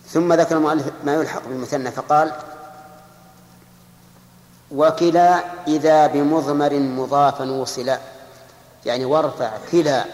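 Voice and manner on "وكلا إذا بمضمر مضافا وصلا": slow, drawn-out verse recitation; recited verse. Shown as a demonstration. Teacher recites the next verse of the Alfiyya, slow and chanted. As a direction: intone each word of the line slowly.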